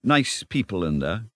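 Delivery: mildly nervous Mole, hesitating with an uh; a trifle nervous. Acted. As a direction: ask timidly, halting twice. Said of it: "said the Mole a trifle nervously".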